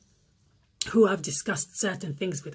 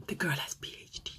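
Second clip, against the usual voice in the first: whisper; 3 semitones lower, 10 dB quieter than usual. Real, not acted. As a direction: whisper "P H D" like a scandal. Shocked aside to viewers.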